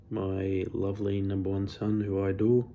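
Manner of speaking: dry mock-fond dad voice, barely acted; deadpan sarcastic praise of a son; sarcasm. Dad's mock praise of his son, said deadpan and sarcastic. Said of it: "That's sarcasm, obviously".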